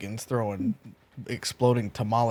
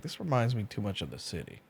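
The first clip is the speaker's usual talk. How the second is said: muttering under breath; 7 dB quieter than usual. Acted. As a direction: mutter it to yourself, barely audible. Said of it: "kinda mutter under his breath".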